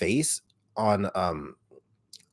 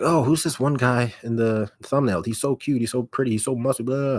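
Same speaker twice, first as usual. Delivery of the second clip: mock fan gush, pitched higher; 5 semitones higher than usual. Vlogger imitating fans gushing over the thumbnail guy, high and swooning. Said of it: "people were like".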